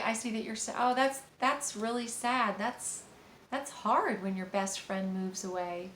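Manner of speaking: put-on empathizing with the child's loss, slow and tender; empathetic, slow. Shown as a demonstration. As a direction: let each word sink in gently. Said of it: "So you would just say".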